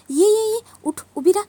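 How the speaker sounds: high, loud summons, insistent; commanding call. Acted. Vikrant ordering a cowering Padma to stand, commanding.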